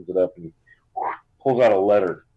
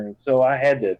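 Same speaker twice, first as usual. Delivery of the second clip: Southern mother; 2 semitones higher than usual. Acted. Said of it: "really Southern".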